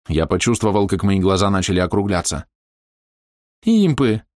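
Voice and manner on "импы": panicked high shout. Acted. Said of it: "подтвердил Маус самое худшее".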